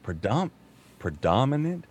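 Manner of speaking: mock frustrated muttering at the word; trying the word again and again, annoyed; half-hearted mock exasperation; frustrated self-questioning. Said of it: "you start going".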